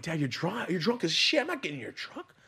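put-on high-pitched kid's protest; imitated defiant child. Six-year-old to drunk dad, high-pitched refusal. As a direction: act out a small kid refusing a parent.

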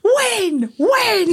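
high, squeaky "When?" asked twice; mock someone with a tiny high voice; squeaky mock question. Teasing her friend with a squeaky high "When?".

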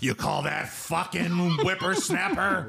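slow mock old-man ghost growl; grumpy ghost of an old frat guy. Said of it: "You sound like Vince McMahon in the afterlife".

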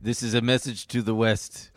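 half-hearted militant leader impression; Bin Laden. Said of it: "Okay, Bin Laden".

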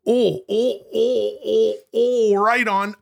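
high, drawn-out excited oohs; eager, high-pitched oohing; sudden brainwave. Acted. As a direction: burst in with rising excitement over an idea. Suddenly has an idea to pitch.

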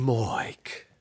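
Aussie Moike. Retold or imitated. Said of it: "M O I K E".

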